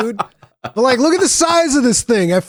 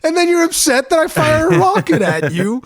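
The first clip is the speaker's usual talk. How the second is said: higher, building mock-indignant rant, nearly shouting on gas grenades; exasperated rant; 6 semitones higher than usual. Quoting himself answering his upset friend, high exasperated mock rant. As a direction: throw up your hands and defend yourself, voice climbing. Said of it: "I'm just like".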